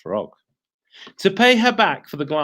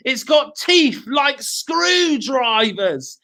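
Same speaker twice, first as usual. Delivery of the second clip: scary tale voice; 10 semitones higher, much slower than usual. Acted. Mr Twit scaring wife.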